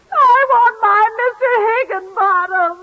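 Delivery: drawn-out hammed-up whimper; slow comic sob. Tootsie pining for her man, slow mock sob. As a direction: wail it slowly, overdone.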